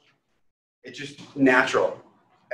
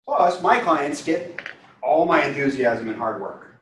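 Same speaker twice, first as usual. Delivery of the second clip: a touch of excitement; 2 semitones higher, slower than usual. Shown as a demonstration.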